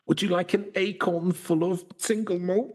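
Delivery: high, sweet coaxing voice to a fairy; offering to a leprechaun. Pretend. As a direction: lightly coax a leprechaun with whisky. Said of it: "Would you go".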